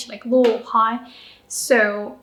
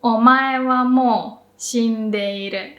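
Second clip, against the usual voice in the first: quicker, like Kenshiro. Shown as a demonstration. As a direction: deliver the famous line like the anime hero. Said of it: "And then say quicker".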